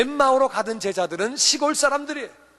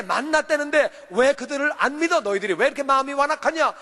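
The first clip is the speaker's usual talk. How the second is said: higher reproachful questions, mildly acted; Jesus chiding stubborn disciples, a little higher; scolding as Jesus; 5 semitones higher than usual. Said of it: "마음이 완악한 것을 꾸짖으셨어요".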